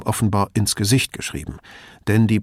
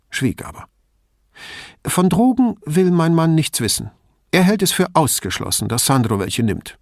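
higher-voiced anxious mother, pressing on; a worried mother confiding in the detective, higher; 7 semitones higher, 3 dB louder than usual. A narrator's reading. Mother reports husband.

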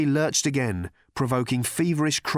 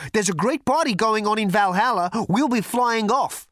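loud, high-pitched proclamation; booming thunder god; 11 semitones higher, 5 dB louder than usual. A narrator's reading. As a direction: announce it grandly like a god. Thunder God declaims his plans.

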